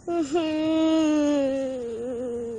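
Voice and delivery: long, drawn-out near-cry; tearful whimper. Acted. Friend about to cry at the news, tearful whimper. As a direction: hold one long whimper on the edge of tears. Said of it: "Are you about to cry again?".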